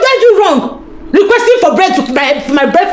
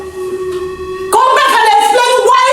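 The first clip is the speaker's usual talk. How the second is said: calling after him; 4 semitones higher than usual. Acted. Wife calling after leaving husband.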